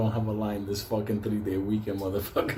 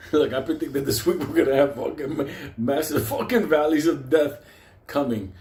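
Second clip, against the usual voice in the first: louder and higher, slowing on the last words; excited prediction; 5 semitones higher, 6 dB louder than usual. Real, not acted. Warning viewers about the market, loud excited prediction. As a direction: hype the coming crash.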